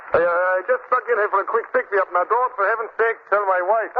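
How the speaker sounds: a nervous shopkeeper whispering a confession; Clancy impersonation. Acted. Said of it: "He just impersonated Clancy, the storekeeper".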